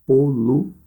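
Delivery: "poluído" split with a pause before the stressed í; broken into parts. Shown as a demonstration. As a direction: say "poluído" in pieces, polu, then í-do. Teacher breaks word into its parts.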